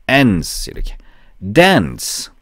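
"dance" with a long vowel going up then down; rising-falling vowel. Shown as a demonstration. Teacher models the word for learners, swooping "dance". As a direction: let the ae of "dance" climb and fall. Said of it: "올라갔다 내려오는 소리예요".

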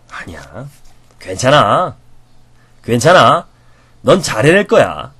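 tender, steady encouragement; reassuring encouragement. Shown as a demonstration. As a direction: lift them up gently. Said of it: "격려를 할 때는요".

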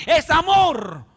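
wife's prayer bursts into a loud cry; mock shouted plea. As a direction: shout it out as the fed-up wife. (esposa que grita su reclamo a Dios, en broma)

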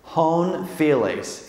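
"hon phileis" spoken slowly, syllable by syllable, with a nasal "hon"; Greek pronunciation. Shown as a demonstration. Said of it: "The Greek is hon phileis".

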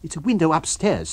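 lightly voiced alarmed man; Kemp voice.

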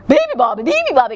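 loud elephant chant; trumpeting. Acted. Elephant joining to wake the bird, trumpeting. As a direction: blare it out like an elephant. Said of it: "trumpeted the elephant".

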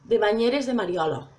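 local Alcoy accent on "Mariolo". Real, not acted. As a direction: say it with an Alcoy lilt. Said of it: "Qué acento".

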